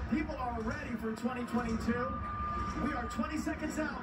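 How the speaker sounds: rising, hyped announcer build-up; building excitement. Real, not acted. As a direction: pump up the crowd before midnight. Building to the countdown.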